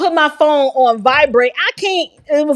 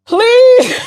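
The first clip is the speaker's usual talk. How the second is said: helpless laughing; 9 semitones higher, 6 dB louder than usual. Real, not acted. Begging through laughing fit.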